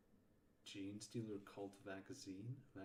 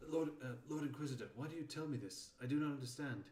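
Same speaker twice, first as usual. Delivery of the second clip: higher-pitched puzzled underling; corrected character voice; 5 semitones higher, 6 dB louder than usual. Acted. Character questioning the Lord Inquisitor, higher character voice. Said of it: "that was the wrong character voice".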